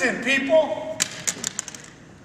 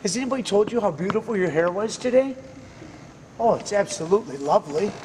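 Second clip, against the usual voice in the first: friendly compliment demo; 4 semitones lower, faster than usual. Shown as a demonstration. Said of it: "We do very simple things like this".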